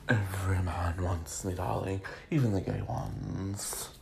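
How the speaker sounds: lightly voiced diva drawl, slow; a hint of a campy drag queen. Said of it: "I made her sound like a drag queen".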